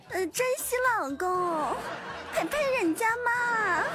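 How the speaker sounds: put-on sugary whiny baby talk; cutesy whiny pleading. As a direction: whine sweetly like a clingy girlfriend. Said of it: "撒娇二十连".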